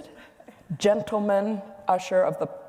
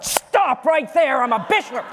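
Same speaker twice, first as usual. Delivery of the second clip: higher, louder, slow mock cry of protest; mock outburst; 6 semitones higher, 6 dB louder than usual. The scandalised Bishop stops her joke, hammed-up slow outcry. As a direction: cut in with a hammed-up objection.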